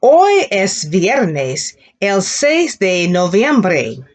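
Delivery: slow, stretched and clear; slow repeat-after-me model; slow model sentence. Shown as a demonstration. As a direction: put it together slowly for the class. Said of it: "Now put that together".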